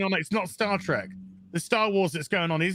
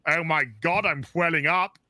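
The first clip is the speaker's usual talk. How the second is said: Patrick Stewart mock intro. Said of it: "just like Patrick Stewart".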